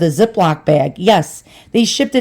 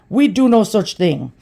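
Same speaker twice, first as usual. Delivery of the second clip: put-on Indian accent. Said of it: "a heavy, thick Indian accent".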